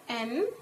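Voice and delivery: "entertainment" in four widely spaced syllables. Shown as a demonstration. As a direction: leave a long pause after each syllable of "entertainment". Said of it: "We will pronunciate the word like".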